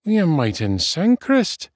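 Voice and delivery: high, doubtful friend; dubious. A narrator's reading. Friend doubting the dwarf's farewell, dubious. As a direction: suggest it doubtfully, pitched high. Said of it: "said Tass dubiously".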